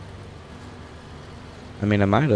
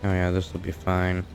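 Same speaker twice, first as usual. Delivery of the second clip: sarcastic; 4 dB quieter than usual. Real, not acted. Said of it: "No, I'm not being sarcastic".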